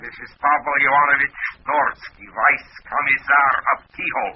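high-pitched mock Russian official; comedy Russian accent. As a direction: put on a comic, pompous Russian accent. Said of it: "What's the idea of the comedy accent?".

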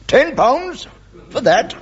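high-pitched, affronted question; incredulous. Acted. Archdeacon told his share of the gift, incredulous. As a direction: query the price in disbelief. Archdeacon baulks at price of present.

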